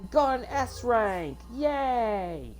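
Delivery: high, playful Aussie celebration; hammed-up Australian, stretched-out cheers; Australian accent. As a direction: cheer the win in put-on Australian. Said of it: "I'm done with the Australian accent".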